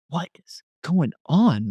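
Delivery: slow, high-pitched bewilderment; bewildered disbelief. Retold or imitated. Asking himself at grandmother's apartment, baffled. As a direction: stretch it out, baffled.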